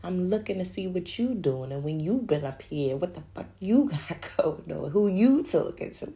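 mildly heated retort; arguing with him, half laughing; mock confrontation. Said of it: "And I be like".

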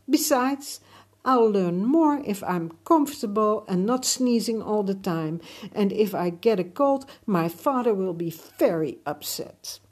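put-on pleading boy voice. Emir arguing with the garden.

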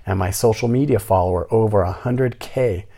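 mocking the tenant. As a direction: parrot her indignant rant back. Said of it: "This is how she talks".

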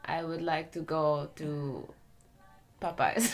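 mock Russian accent, slowing and softening; Russian villain accent. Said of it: "you're gonna get in the Uber".

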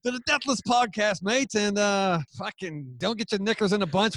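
half-successful Australian accent plug; attempted Australian accent. Shown as a demonstration. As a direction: put on a rough Australian accent. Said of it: "in the accent?".

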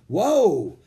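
sudden high loud yelp of surprise; startled whoa. Acted. Jack shoved by a gorilla, startled loud whoa. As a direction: cry out as you're knocked sideways.

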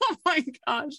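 high laugh into "oh my gosh"; giddy laugh. Real, not acted. Hearing it's Stacy Dragila.

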